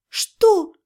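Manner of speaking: high, blank little question; dull incomprehension. A narrator's reading. Mage failing to follow the demon, dull question. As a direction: ask it blankly, none the wiser. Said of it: "тупо спросила я".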